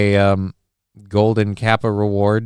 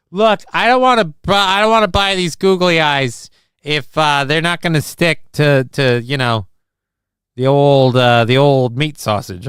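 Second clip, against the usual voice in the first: higher, louder comic protest; mock indignant; 4 semitones higher, 4 dB louder than usual. Streamer acting out a googly-eye shopping complaint, mock indignant. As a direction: push back loudly, playing the concerned buyer.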